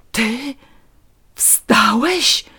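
halting question, high on the last word; stammered disbelief. A narrator's reading. Wife sees her wheelchair-bound husband standing, stunned and halting. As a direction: falter between the words, stunned. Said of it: "wydukała jego żona".

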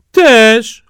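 put-on high, eager country-boy voice; a naive lad dead set on a bride; eager simpleton Jaś. Jaś answers the brothers.

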